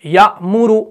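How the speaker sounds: यामुरु with the long aa read plainly; wrong reading. Shown as a demonstration. Teacher reads यामुरु, the form to avoid. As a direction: reads यामुरु as if the alif were sounded. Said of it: "हम यामुरु नहीं पढ़ते".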